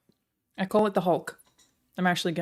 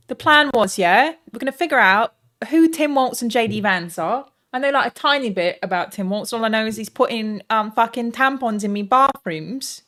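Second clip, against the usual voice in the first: chirpy mock English accent, a bit louder; English woman accent; 2 semitones higher, 5 dB louder than usual. Streamer opening the stream in mock English accent. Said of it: "I feel like I look like an English woman".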